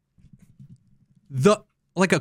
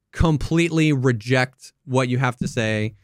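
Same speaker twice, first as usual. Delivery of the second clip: ordinary talk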